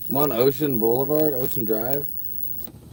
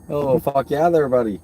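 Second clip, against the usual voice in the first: mock Minnesota accent; 4 semitones higher, 3 dB louder than usual. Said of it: "that's why I got the accent".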